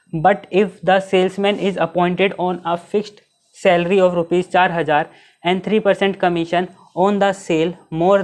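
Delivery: reads the question out word by word, very slow; slow dictation read. Shown as a demonstration. Teacher reading the exam question to the class, slow dictation pace. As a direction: spell out the problem slowly for students to copy.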